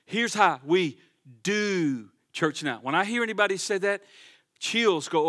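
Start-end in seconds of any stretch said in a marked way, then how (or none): 0.0-2.8 mocking empty talk. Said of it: "that old empty talk".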